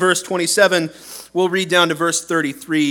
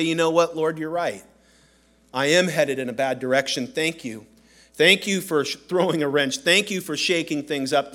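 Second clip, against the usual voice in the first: humble prayer; 3 dB quieter than usual. Pretend.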